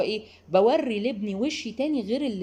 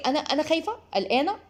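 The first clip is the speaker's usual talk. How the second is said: mock fear; 6 semitones higher than usual. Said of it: "حماتك او مامتك".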